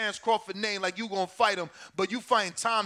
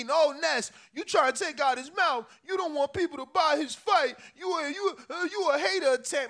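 imitating accusing critics in a higher pitch; higher-pitched mock accusations; mock hater; 4 semitones higher than usual. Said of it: "then they hate on me".

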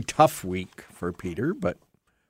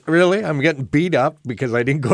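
incredulous; 4 semitones higher, 3 dB louder than usual. Retold or imitated. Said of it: "And I'm going".

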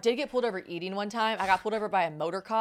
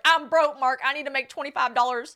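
loud, higher mock protest; desperate plea; 4 semitones higher, 5 dB louder than usual. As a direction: plead poverty to the agent, hammed up. Acted desperate plea to agent.

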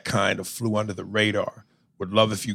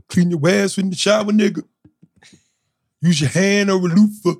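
higher, louder hyped-up delivery; loud advice; 9 semitones higher, 5 dB louder than usual. Acted. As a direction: shout the advice like a PSA. Reading listener advice loudly.

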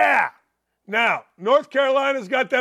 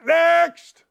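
high, loud "Next!"; game show call; 7 semitones higher, 5 dB louder than usual. Acted. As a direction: bark it like a host.

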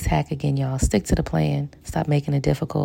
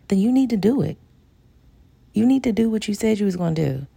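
emphatic; 7 semitones higher, 3 dB louder, faster than usual. Real, not acted. Urging listeners to follow through.

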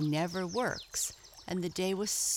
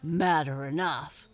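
firm, louder grumble; grumbling bee; 2 semitones lower, 5 dB louder than usual. A narrator's reading. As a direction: grumble it out crossly. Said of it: "grumbled Bumble the Bee".

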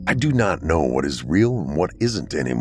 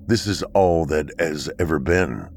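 stern bunker dweller; 3 semitones lower than usual. Acted. Akron's slow, measured replies.

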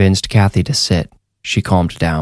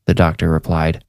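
ordinary delivery

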